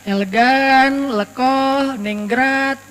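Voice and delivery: savouring the word elegan slowly; slow deliberate elegan. Shown as a demonstration. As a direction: stretch out each syllable of elegan.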